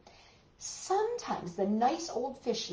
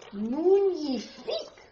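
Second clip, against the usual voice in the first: excited echo; 6 semitones higher, 4 dB louder, slower than usual. Acted. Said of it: "echoes the cry to children".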